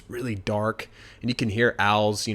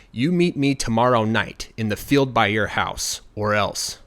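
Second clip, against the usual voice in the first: loud, stern leprechaun command; stern master giving orders; threatening order; 5 dB louder than usual. Acted. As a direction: order him firmly, as a threat. Angry leprechaun threatens Billy.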